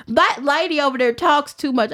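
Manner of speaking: imitating a rival player's Southern twang. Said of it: "I had to do her little twang".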